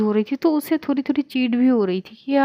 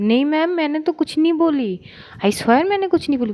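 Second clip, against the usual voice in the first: mock-innocent protest, higher; innocent denial; 6 semitones higher than usual. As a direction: plead innocence playfully. Denying to teacher, caught out. (मासूम बनकर इनकार)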